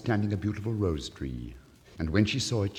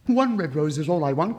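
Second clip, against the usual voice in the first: crying out; 6 semitones higher, 8 dB louder than usual. Acted. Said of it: "cried the nightingale".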